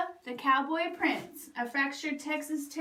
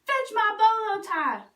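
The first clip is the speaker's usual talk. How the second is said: louder, higher, slow bossy demand; yelled order; 7 semitones higher, 5 dB louder than usual. Acted. Stepbrother yelling orders at Bubba, loud and slow. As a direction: bark the order at him.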